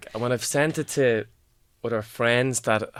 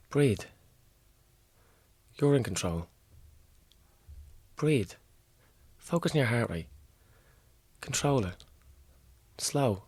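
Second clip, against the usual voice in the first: poem recital; 4 dB louder than usual. Acted. Performs poem Panic Attack.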